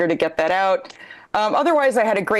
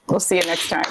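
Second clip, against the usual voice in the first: whispering; 4 semitones lower, faster than usual. Real, not acted. Whispered sign-off.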